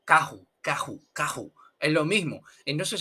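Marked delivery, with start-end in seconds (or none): 0.0-1.5 "caju" with a loose throaty h; "caju" with no trill, just breath; lazy Portuguese R. Shown as a demonstration. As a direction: repeat "caju" with the r relaxed into h. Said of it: "volver un poco perezoso".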